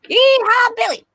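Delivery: high, loud hammed-up cowboy yeehaw; cowboy whoop. Texas guide greeting Simon, loud mock cowboy yeehaw. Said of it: "I'm hearing".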